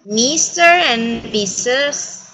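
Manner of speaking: slow model with AND reduced to "n"; "Mister 'n' Missus", slowly for learners. Shown as a demonstration. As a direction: join Mister to Missus with just an "n" for AND. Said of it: "no las pronunciamos, son mudas".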